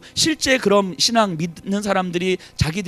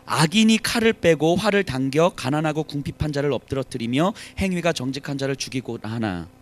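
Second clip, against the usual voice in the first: scripture reading; 3 semitones lower than usual. Shown as a demonstration. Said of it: "우리 십사 절 잠시 보셔요".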